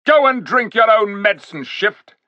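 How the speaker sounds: high, loud scornful retort; angry king. A narrator's reading. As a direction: fling the words with contempt. King hurls ape away.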